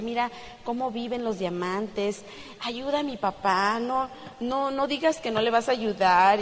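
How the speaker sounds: a gentle hint of a crying child begging; mild imitated crying. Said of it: "Y él llorando". (niño suplicando entre lágrimas, suave y lento)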